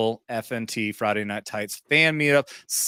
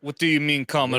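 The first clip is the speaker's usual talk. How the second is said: put-on Russian accent. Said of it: "if you say it in a Russian accent".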